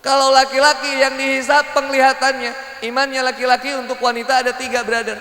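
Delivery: loud, high sermon voice; emphatic preaching. Acted. Preacher teaching about men's gaze, emphatic. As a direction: announce the next point forcefully.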